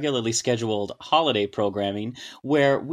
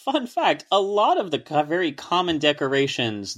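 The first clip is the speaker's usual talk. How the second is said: excited; 5 semitones higher than usual. Real, not acted. Excited fun fact opener.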